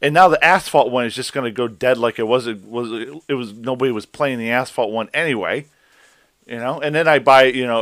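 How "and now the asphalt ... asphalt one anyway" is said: exasperated rant. Retold or imitated. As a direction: vent it like you were cheated. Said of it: "And I'm like".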